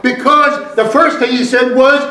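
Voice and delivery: measured preacher cadence with weighty stresses; emphatic preaching. Real, not acted. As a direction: drive each phrase home to the congregation. Preaches to the congregation.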